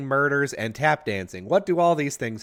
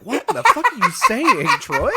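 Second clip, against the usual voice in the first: much higher, incredulous mock outrage; baffled; 13 semitones higher, 6 dB louder than usual. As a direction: pretend you can't understand a word. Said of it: "And you're like".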